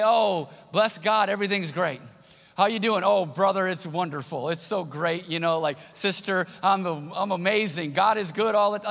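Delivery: lampoon the masked everything's-great church greeting; mock cheerful churchgoer. Pastor mocks churchgoers hiding behind cheerful small talk, hammed-up. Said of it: "put a mask on and just say".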